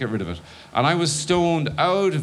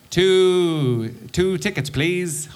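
nervous rehearsal; 5 semitones higher, much slower than usual. Shown as a demonstration. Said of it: "ask for two tickets, please".

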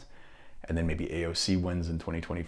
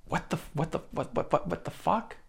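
stunned whisper; 11 semitones higher, 4 dB quieter than usual. Retold or imitated. Stunned reaction to recording.

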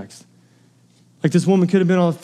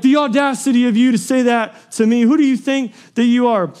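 higher, affronted protest; mock indignation; 5 semitones higher than usual. Woman to Jesus as she might have snapped, indignant. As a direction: act out an offended comeback. Acted offended reply she didn't give.

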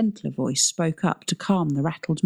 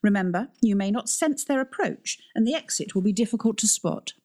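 head teacher tone; 6 semitones higher than usual. Acted. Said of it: "adopting her head teacher tone of voice".

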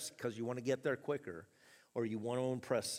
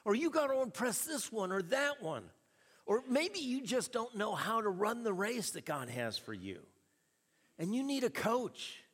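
rising exhortation; 7 semitones higher than usual. Real, not acted. Preacher building to exhortation.

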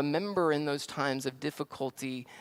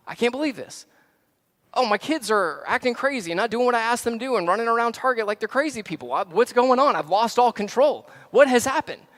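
hammed-up high, shouted meltdown; spinning out; 8 semitones higher, 9 dB louder than usual. Frazzled parent stuck in traffic crying out to God, over-the-top panic. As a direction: build to a melodramatic wail at heaven. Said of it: "So we spin out".

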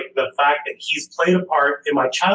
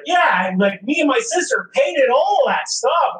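retold friend's reply; 8 semitones higher than usual. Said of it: "he was like".

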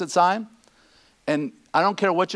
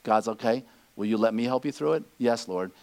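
soft, low, weary confession; broken-down prayer; 7 semitones lower, 5 dB quieter than usual. Pretend. A worn-out believer admitting to God they can't cope, soft and low. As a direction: pray quietly at the end of your strength. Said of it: "when you come to the end of yourself".

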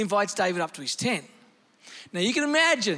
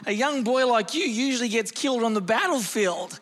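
matter-of-fact Saul; 3 semitones higher than usual. Acted. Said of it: "he's just speaking matter-of-factly".

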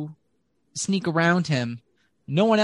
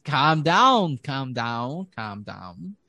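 calming down; much slower than usual. Acted. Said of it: "So you begin to rage".

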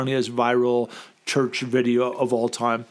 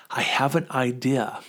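put-on slow, sweet schoolteacher voice to children; a hint of a schoolmarm addressing children, slowed down; teacher talking to kids; slower than usual. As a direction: talk like she's addressing a class of kids. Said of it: "Like she's talking to kids".

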